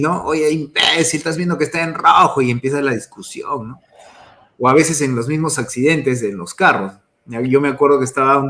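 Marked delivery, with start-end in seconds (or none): 0.2-2.4 imitated angry yell. Driver yelling at someone who crossed on red, mild mock anger. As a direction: scold the other driver in a light mock rage. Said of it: "salir del carro y gritarle".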